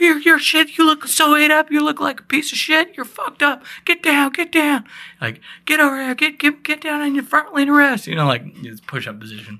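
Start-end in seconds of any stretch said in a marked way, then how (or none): 0.0-8.1 acted, very high-pitched, screaming drill sergeant voice. Retelling drill sergeants at training yelling in his face: imitating drill sergeants yelling. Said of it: "they're yelling in my face".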